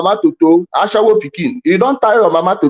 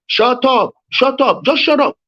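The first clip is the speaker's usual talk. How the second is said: insistent angry command; 4 semitones higher, slower than usual. Real, not acted. Rival will not stop talking, insistent and angry. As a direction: hammer it out to silence the rival. Repeatedly silencing the opponent.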